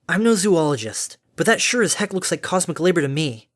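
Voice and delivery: a hint of a feisty character; wry Harmony. Harmony argues the creature is in labor, wry.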